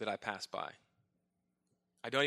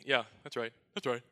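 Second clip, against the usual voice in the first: dispassionate; 3 dB louder than usual. Retold or imitated. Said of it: "He just very dispassionately".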